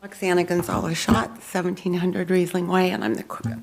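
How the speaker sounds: talking with new braces; speaking around fresh braces; braces on teeth. Real, not acted. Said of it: "I just had braces put on my teeth today".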